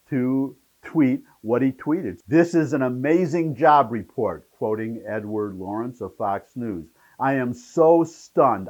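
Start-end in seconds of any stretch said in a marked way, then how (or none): 2.3-4.5 louder, lifted read of a rave quote; quoted enthusiasm. Retold or imitated. Host quoting a glowing tweet on the jobs numbers, quoted enthusiasm. 7.2-8.7 slow, louder, emphatic quote of astonishment; quoted amazement. Retold or imitated. Host quoting a reaction to the jobs report, quoted amazement.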